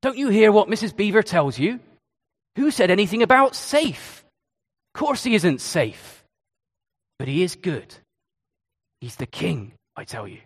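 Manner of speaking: Mr Beaver telling Lucy Aslan isn't safe, in a put-on accent. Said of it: "Sorry about the accent".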